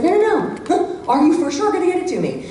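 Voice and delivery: high, fast, laughing insistence; mock urgent pressing. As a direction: push for a firm yes. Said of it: "it's like".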